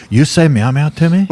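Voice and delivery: put-on thick Armenian accent, menacing. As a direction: imitate an Armenian kid's accent. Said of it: "he's got a thick Armenian accent".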